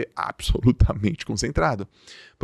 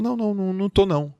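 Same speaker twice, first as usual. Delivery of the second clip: meek people-pleaser; 8 semitones higher, faster than usual. Retold or imitated. Meek denial against the inner urge.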